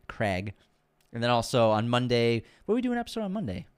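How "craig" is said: Craig said like "Crag" in Boston accent; Boston-accented Craig with a flat a. Shown as a demonstration. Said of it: "the Boston accent comes out when we say Craig".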